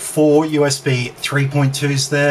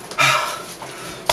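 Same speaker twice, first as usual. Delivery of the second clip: long breathless huff; heavy panting exhale; 4 dB quieter than usual. Real, not acted. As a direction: blow out air, winded. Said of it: "catching my breath".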